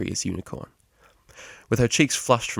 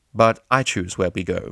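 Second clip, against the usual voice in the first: called out; 4 dB louder than usual. Acted. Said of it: "she called over her shoulder".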